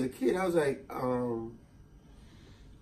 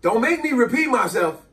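higher, firm parent warning; mild stern parent; 7 semitones higher, 3 dB louder than usual. Retold or imitated. Parent warns the kid, a touch higher. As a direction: warn like a tired parent. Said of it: "how about this one".

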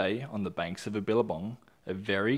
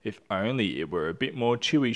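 sighed; 4 dB louder than usual. Acted. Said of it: "she sighed".

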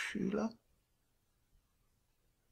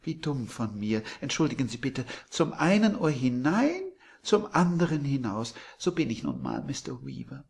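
put-on high, much louder gushing old landlady; sweet landlady; 4 semitones higher, 7 dB louder than usual. A narrator's reading. Landlady surprising Billy from behind, high and gushing. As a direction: coo it like a doting hostess.

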